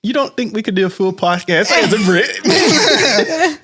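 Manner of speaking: put-on high, slow joking British accent; mock British accent. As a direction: play a posh Brit, half laughing. Joking about doing British accent.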